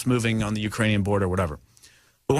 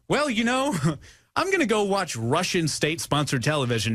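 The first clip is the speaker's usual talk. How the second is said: mock quote; 4 semitones higher than usual. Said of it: "Who would ever say".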